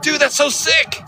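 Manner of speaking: high, slow, drawn-out California surfer drawl; California surfer dude. Retold or imitated. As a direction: stretch it out like a stoked California bro. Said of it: "I'm like".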